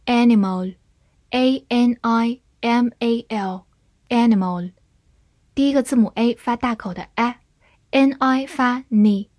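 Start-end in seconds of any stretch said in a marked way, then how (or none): 0.1-4.7 slow, letter by letter, then the word; slow spelling drill. Shown as a demonstration. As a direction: spell it out slowly for the class. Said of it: "spelling out a word".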